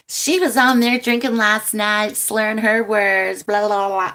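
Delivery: hammed-up nosy viewer tattling; mock gossip viewer. Imagined viewer gossips about her drinking, mock tattling. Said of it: "somebody's gonna tune in and go".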